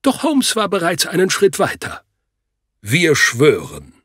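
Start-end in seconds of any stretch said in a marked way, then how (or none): 2.8-3.9 übertrieben feierlich. A narrator's reading. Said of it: "verkündete er übertrieben feierlich".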